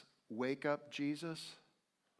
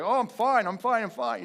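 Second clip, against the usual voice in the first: forced calm; 10 semitones higher, 10 dB louder than usual. Retold or imitated. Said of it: "kind of panicking inside, but trying to keep it calm".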